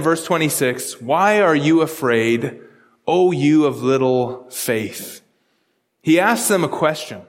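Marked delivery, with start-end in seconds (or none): 1.0-5.2 slow, lower, measured rebuke as Jesus; a calm teacher gently asking his frightened friends; gentle rebuke. Retold or imitated. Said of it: "And he said to them".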